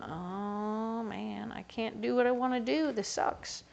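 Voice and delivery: soft, fading grumble dropping to a breathy end; frustrated grumble. Retold or imitated. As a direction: sulk it out under your breath. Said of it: "feeling frustrated and irritated about that".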